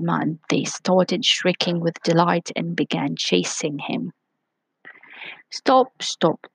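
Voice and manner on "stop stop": high shouted call to stop; shouting. Acted. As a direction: call out after him, pitched up. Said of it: "they shouted".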